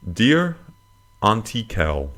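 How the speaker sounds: high, rising salutation, then settling; letter read-out. Acted. Host opening a listener's letter, ceremonious read-out.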